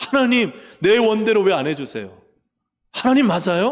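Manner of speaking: loud, high, forceful, insistent voice.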